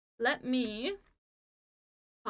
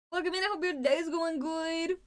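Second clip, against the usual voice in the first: high cute greeting; 6 semitones higher than usual. Real, not acted.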